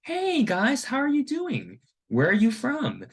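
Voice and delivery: high-pitched, breezy mock friendliness; light, chatty put-on hello; casual friendly greeter. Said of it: "was very casually and talks to us".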